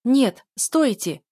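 slow, loud, high cry of protest; shouting. Acted. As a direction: yell stop at the intruders. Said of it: "закричала я". (громкий протяжный крик)

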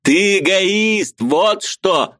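high, slow accusing cry; thundering. A narrator's reading. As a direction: hammer the word эгоист. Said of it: "гремел он".

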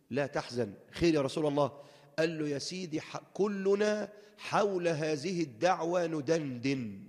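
gentle consoling. Retold or imitated. The Prophet comforting his humble companion, softly and slowly. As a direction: reassure him unhurriedly, like a loving teacher.

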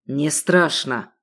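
slow, low, careless; the sheikh dismisses police threat; cynical dismissal. Acted. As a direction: shrug off the danger.

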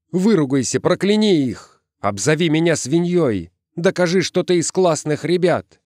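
high, insistent begging; pleading. A narrator's reading. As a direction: urge her on desperately. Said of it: "взмолился он".

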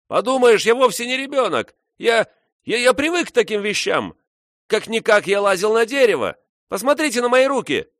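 put-on high, loud indignant boy yelling; shrill boy's protest. A narrator's reading. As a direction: insist like an offended kid, shrieking.

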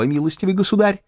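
high teasing mock-formal address. A narrator's reading. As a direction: tease him with a grand title.

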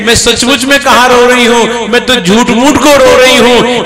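wife's loud, high reply; loud retort. Acted. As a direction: fling it back at him, loud and high. Wife reveals fake crying.

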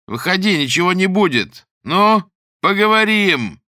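high, loud, slow menacing yells; threatening shout. Acted. The armed maniac shouts up at the girls, threatening. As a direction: bellow threats like an unhinged man.

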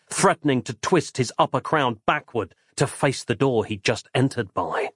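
ordinary delivery

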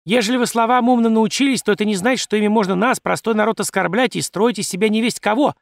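a wife snapping at the educated gentlemen; flaring up. A narrator's reading. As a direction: bristle and lash out. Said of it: "взвилась Лидия".

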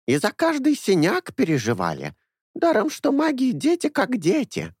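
put-on a fussy old nanny doting on her boys; old woman. A narrator's reading. Old woman Anessa speaks.

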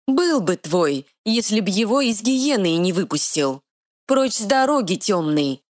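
high, ringing fairy order; mighty fairy command. Acted. Fairy ordering the dark lord aside, high and mighty. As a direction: command him like spring thunder. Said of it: "зазвучало могущество весеннего грома".

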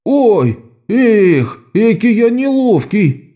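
высоко и протяжно, нарочито неловко; громко сокрушаясь о своей неуклюжести; восклицание. A narrator's reading. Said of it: "воскликнул оборванец". (воскликнул высоким голосом)

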